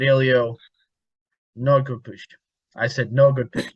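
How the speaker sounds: mock Spanish-accented broken English; a touch of a Spanish accent, teasing. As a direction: answer him back in a light Spanish accent. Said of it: "I even gave him a little accent I shouldn't have".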